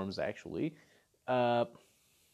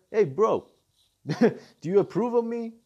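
higher and louder, laughing through it; laughing mock plea; 6 semitones higher, 6 dB louder than usual. Jiren begs his revived master, laughing and pleading. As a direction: beg your revived master for approval, giggling. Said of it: "and telling him".

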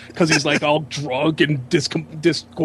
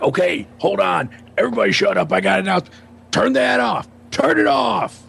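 higher-pitched bossy shouting, rising as it goes; retold yelling; 5 semitones higher than usual. Host ordering the room to stop the movie, building to a yell. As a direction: imitate a host taking command. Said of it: "He's yelling".

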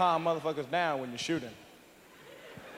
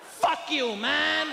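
mock white guy; 9 semitones higher, much slower than usual. White boyfriend defending his lady, high mock protest. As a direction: play the offended white boyfriend.

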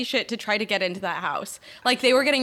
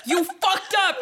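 high, retold angry jab; mock accusation; 8 semitones higher, 4 dB louder than usual. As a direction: fire it off accusingly, half laughing. Voices angry texts received.

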